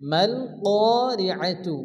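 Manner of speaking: "কারিআতু" slowly, the alif held long; slow, careful "কারিআতু"; tajweed demo. Shown as a demonstration. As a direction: stretch the alif of "কারিআতু" for one alif length. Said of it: "এক আলিফ পরিমাণ টান দিয়ে পড়তে হবে".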